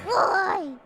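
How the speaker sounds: high, loud playful shout; echoing the wail in jest; mock wail. To her co-host about British men, a mock shouted wail.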